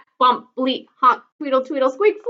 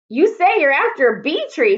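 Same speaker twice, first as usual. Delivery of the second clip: mild shriek; 5 semitones higher, 3 dB louder than usual. Acted. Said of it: "she shrieked".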